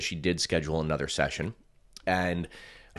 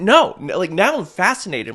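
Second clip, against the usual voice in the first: much higher and louder giddy excitement; thrilled; 14 semitones higher, 11 dB louder than usual. Retold or imitated. To the healer, high loud giddy fascination. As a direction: gush with delight.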